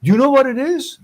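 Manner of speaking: high retold shout to a crowd, fast at first; calling out to the line. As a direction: yell out to everyone queuing for bread. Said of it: "You start yelling".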